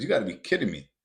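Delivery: imitating an older businessman's disbelief; mock flabbergasted; incredulous. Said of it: "he goes, he goes".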